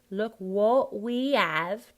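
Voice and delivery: "have" as ave, slow and loud; dropped T and H. Shown as a demonstration. Coach modelling the phrase, dropped T and H. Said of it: "drop that H".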